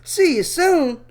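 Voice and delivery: a dismissive hammed-up rant; mock outrage. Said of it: "man, I'm like".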